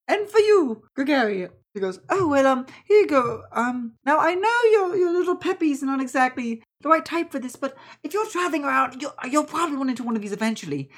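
high auntie voice; fussing auntie, kindly. Acted. Auntie giving Gregory a seed, high fussing voice. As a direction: hand it over haltingly, pitched high.

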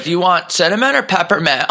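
high squeaky clerk question; dolphin-like squeak. Retold or imitated. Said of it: "sounded like a dolphin towards the end".

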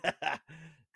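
high, loud fan enthusiasm; big hyped-up cheer; excited. Real, not acted. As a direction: gush about your hero, loud and high. Enthusing about a favourite wrestler.

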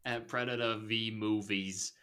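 light put-on Australian plug; Australian accent. Host plugging social accounts, in a put-on Australian accent. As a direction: read the socials in playful Australian. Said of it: "That's Australian".

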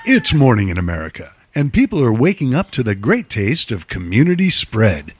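warm commercial announcer read. Acted. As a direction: sell it like a TV spot. Mock sponsor ad read.

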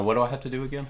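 croaky voice. Real, not acted. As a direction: voice catching like a frog in the throat. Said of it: "Why, why did you sound like that?".

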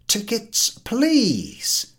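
نداء التذاكر بصوت أعلى; ticket call. Acted. Collector calling for tickets.

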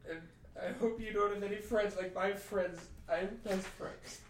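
put-on high, kid-like schoolyard sneer; childish taunt. Bard mocks the were-rat in a high, bratty child's voice. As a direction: whine it up high like a bratty kid mocking a bully. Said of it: "I say".

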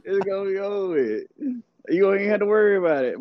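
playfully showing off a Southern accent; excited Southern twang. Shown as a demonstration. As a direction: repeat it with your Southern twang. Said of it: "Wait till you get excited".

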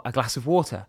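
"water" with a British t and no r; British accent. Retold or imitated. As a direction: order in his own British accent. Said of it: "with this accent".

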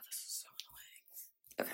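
slow, breathy annoyed whisper under the breath; real frustration, whispered slowly. Real, not acted. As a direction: sigh it out to yourself, fed up. Frustrated over lost ring.

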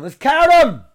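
loud, high yawning call; yawning shout. Real, not acted. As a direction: yell it mid-yawn. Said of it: "That's yawn number deuce".

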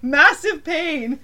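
loud, slow retold protest; indignant protest. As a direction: insist loudly, dragging it out. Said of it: "And I'm like".

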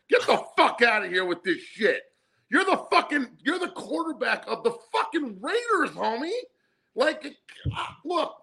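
laughing scold. Real, not acted.

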